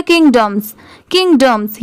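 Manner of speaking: "किंगडम्स" with the second vowel shortened to dum; quick, reduced dum. Shown as a demonstration. Teacher shows the word at speed, "किंगडम्स" with a reduced dum. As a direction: say "किंगडम्स" as connected king-dums, no full dom. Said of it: "speed में बोलेंगे तो पूरा डॉम नहीं आएगा".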